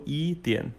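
一点 with the D near a T. Shown as a demonstration. Teacher explains the spelling of 一点, D said like T. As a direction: say the D of 点 close to T. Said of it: "D sounds like T".

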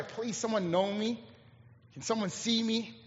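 softly voiced longing; quiet plea. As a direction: plead gently, almost to yourself. Voicing a longing to be known.

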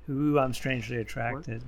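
swooning. Retold or imitated. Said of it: "I might actually have said".

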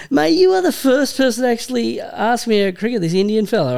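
high, excited burst, laughing into it; a retold excited outburst to the shop fella; excited retelling. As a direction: gush like you've finally found a fellow fan. Retells excited reply to shopkeeper.

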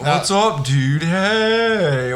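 goofy cartoon-dinosaur dude; mocking dude voice. Comedian parroting his co-host's bad voice, goofy and exaggerated. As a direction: mimic his stoner greeting, overdone. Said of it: "What are you, Barney?".

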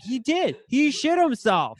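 high-pitched, drawn-out jeering imitation; mock accusation. Friends retold accusing him of an accident, mock accusation.

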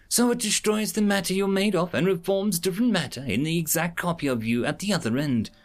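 lightly voiced alien, high and upset; a hint of a shaken alien; distraught alien. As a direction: plead it like a horrified creature. Mola explains, distraught.

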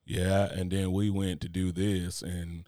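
slow, lightly voiced monotone narrator; monotone narrator impression. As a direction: drone it slowly with no inflection. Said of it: "if you think my voice monotonous, this dude right here is wild".

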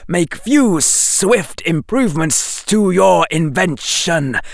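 high, slow snapped serpent orders; a snake barking commands; commanding snake. Acted.

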